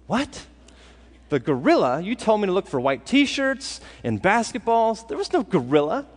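incredulous what, the gorilla; acted disbelief. Viewer told to watch for white shirts, protesting in disbelief. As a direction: play baffled and indignant.

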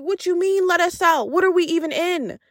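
high, disbelieving questions; exasperated, don't you see it; incredulous. Retold or imitated. Retorting to the macho dude.

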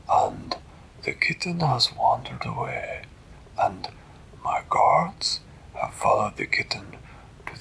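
halting, husky put-on voice; stately storybook cat king; worried cat ruler. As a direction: explain gravely with small hesitations. Voices Flibbertigibbet explaining the emergency.

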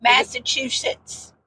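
Massachusetts said slowly, syllable by syllable; slow careful pronunciation. Shown as a demonstration. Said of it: "that takes a lot of effort".

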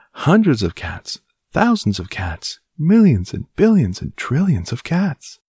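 put-on old woman crying out to her husband, high and loud. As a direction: exclaim in shock at the cats. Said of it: "she cried".

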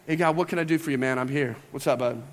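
a lightly played chummy dude voice; overly casual. Shown as a demonstration. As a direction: toss it off like greeting a pal, low and easy. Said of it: "We don't say it like that".

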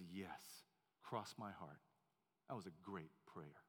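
put-on hushed kindly old gentleman; gentle old man. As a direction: reassure a crying child. Old man reassures boy.

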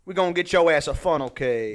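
comic mock Cajun promise; Cajun guy voice. Promising a freed prisoner carnival treats, mock Cajun guy voice. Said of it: "like, Cajun guy voice".

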